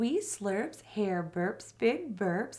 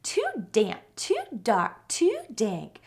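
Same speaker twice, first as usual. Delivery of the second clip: squeaky mouse; 5 dB louder than usual. Acted. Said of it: "Mouse squeaks".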